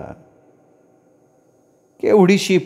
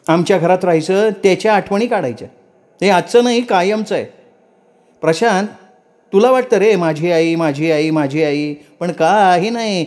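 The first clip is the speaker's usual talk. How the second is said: bitter angry outburst; 5 semitones higher than usual. Acted. Wife resentful outburst at dinner.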